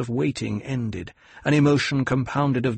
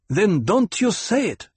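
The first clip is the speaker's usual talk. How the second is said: firm, raised command; ordered; 8 semitones higher, 4 dB louder than usual. A narrator's reading. Hera commanding the child, firm and raised. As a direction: lay down the law. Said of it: "Hera ordered".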